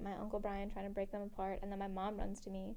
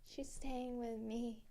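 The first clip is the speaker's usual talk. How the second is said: put-on slow, dragged, softer drunken words; mock drunk slur; 5 dB quieter, slower than usual. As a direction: drag it out like a drunk mom. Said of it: "my mom was shit-faced".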